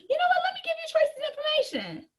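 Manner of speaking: high, bright excited tip; a happy customer eagerly referring a cousin; eager referral. Acted. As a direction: eagerly pass on the contact.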